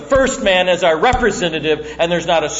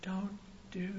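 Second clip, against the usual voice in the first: much softer, urgent whispered warning; hushed plea; 21 dB quieter than usual. Retold or imitated. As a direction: hiss it under your breath. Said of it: "I would have been freaking out".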